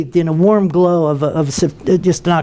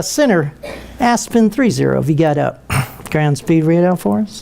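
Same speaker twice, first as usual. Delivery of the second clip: innocent voice; 3 semitones lower than usual. Retold or imitated. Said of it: "in his very best innocent voice".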